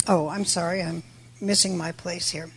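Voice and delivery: ordinary talk, nothing marked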